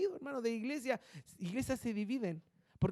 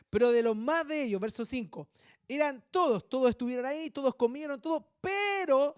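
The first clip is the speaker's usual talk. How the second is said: forceful reading; 3 semitones higher, 4 dB louder than usual. Acted.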